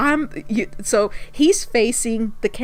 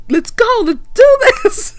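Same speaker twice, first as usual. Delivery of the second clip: high, loud, laughing hurry-up; impatient hurry; 12 semitones higher, 8 dB louder than usual. Retold or imitated. Camera guy pointing at his watch, loud and impatient. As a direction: rush them along, laughing. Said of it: "pointing at his watch".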